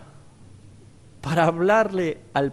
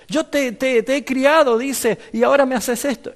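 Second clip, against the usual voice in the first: hurt donkey; 6 semitones higher than usual. Acted. Donkey reproaches prophet.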